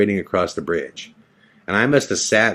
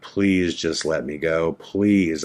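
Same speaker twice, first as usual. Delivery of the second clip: quiet pleading; 4 semitones lower, 4 dB quieter, slower than usual. Retold or imitated. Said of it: "like, begging them".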